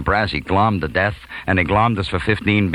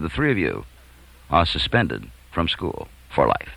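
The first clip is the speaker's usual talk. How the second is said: principal's pronouncement; 4 semitones lower, 4 dB quieter than usual. Retold or imitated. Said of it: "I can paraphrase Doctor Irving Cohen".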